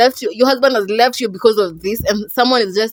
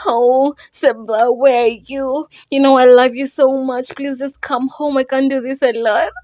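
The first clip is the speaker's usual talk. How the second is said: mild pleading sob; 4 semitones higher than usual. Retold or imitated. Aisha begging her husband to come home, mock tearful. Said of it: "she's crying".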